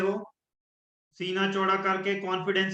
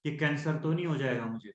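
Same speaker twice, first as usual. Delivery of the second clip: lower, softer anxious question; fearful worry; 5 semitones lower, 5 dB quieter than usual. Shown as a demonstration. Coach demonstrating fearful self-talk, lower and softer. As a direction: let the dread sink your voice. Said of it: "वो डर वाली feelings".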